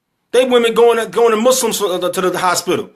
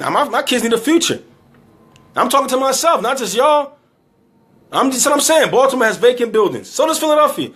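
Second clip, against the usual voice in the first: emotional; 5 semitones higher than usual. Real, not acted. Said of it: "I got emotional at the end".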